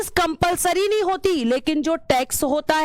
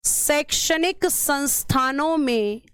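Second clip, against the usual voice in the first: शैक्षणिक संस्थानों में said slowly, word by word; slow, even dictation pace for note-taking. Shown as a demonstration. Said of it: "तो इसमें पहले लिखना".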